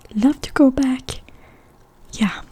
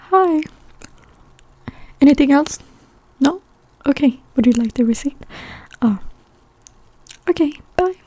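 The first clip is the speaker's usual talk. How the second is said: Swedish cashier; 3 semitones higher, faster than usual. Retold or imitated. Cashier serving a customer in Sweden, lightly mimicked. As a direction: imitate a shop clerk's routine in a raised voice.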